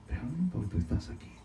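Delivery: low, soft voiced quote; hushed, accepting aside; different, humbler attitude. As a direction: drop down low and soft, as if submitting to the Lord. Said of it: "pero con otra actitud le dice".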